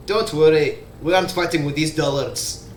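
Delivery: understated proud reassurance; hint of pride. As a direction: reassure them with a touch of pride. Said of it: "hint of, uh, pride, he says".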